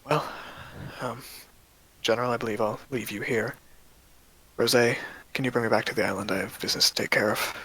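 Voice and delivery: lightly voiced, resigned Inquisitor; sighing Inquisitor. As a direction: take leave softly, lightly in character. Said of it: "Inquisitor kinda just sighs and says".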